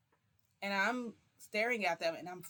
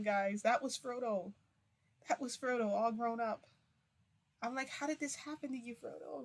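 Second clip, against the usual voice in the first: higher, emotional cry of recognition, a mother finding her grown son; overwhelmed mother recognizing her grown son, raised voice breaking with emotion; tearful reunion; 5 semitones higher than usual. Retold or imitated. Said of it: "I try not to cry".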